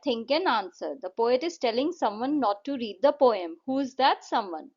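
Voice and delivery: slow, clear question reading; slow textbook read-out; reading a question aloud. Acted. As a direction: read it slowly so the class can follow. Reads question slowly.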